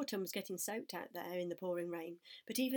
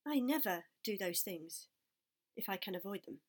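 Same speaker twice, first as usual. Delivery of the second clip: sour. Acted. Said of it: "replied the rat sourly".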